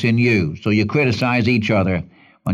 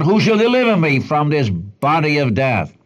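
raised, mildly anguished plea; crying out; 4 semitones higher than usual. Acted. Preacher acts a prisoner burdened with a corpse, crying out. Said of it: "And he cries out".

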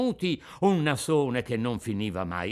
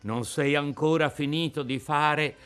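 a saddened father's gentle reproach; sad. Acted. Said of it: "si fece triste e melanconico". (tono triste e malinconico, contenuto)

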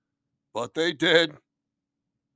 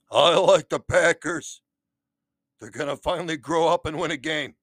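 Johnny Stash voice; 3 semitones higher, 4 dB louder than usual. Acted. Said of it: "Johnny Stash, what do you say".

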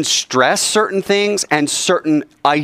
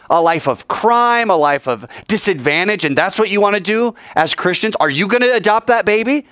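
mock opponent; 6 semitones higher than usual. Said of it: "all of it is an appeal to pity".

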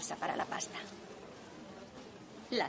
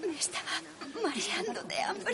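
tearful; 10 semitones higher than usual. Acted. Starving mother breaks down.

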